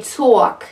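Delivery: "talk" with the vowel pushed out to "or"; New York vowel. Shown as a demonstration. Coach showing New York sound, "talk" with a rounded "or" vowel. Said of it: "the sound is going or, out".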